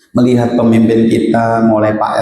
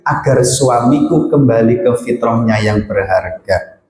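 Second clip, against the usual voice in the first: heartfelt prayer. Shown as a demonstration. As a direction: pray humbly, letting go. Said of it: "hatinya harus begini". (doa tulus yang pelan dan khusyuk)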